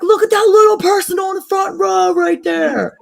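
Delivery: put-on high, loud, slow kid's stage whisper that comes out as a shout; a little boy trying to whisper but blurting it; mock toddler shouting a secret; failed toddler whisper. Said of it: "not whispering, but he was trying to".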